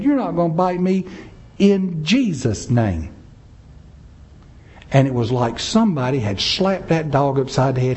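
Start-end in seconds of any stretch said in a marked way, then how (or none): 0.0-3.1 higher-pitched rebuke, slowing at the end; retold commanding holler. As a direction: retell commanding a dog, drawing out the final words. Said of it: "I start hollering to that dog".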